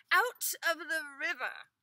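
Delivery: high, loud rush of eager telling; wife eagerly telling the master everything. Acted. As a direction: blurt it all out eagerly. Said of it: "said the wife eagerly".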